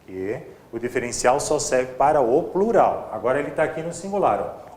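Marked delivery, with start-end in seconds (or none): none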